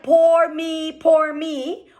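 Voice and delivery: whiny poor me, mocking; a hint of a sulky victim; mock self-pity. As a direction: play the pitying victim, lightly. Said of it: "Were you like".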